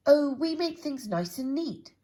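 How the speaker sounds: bouncy, keen storybook voice; eager Mister Neat. Acted. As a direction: gush about making things neat. Eager character.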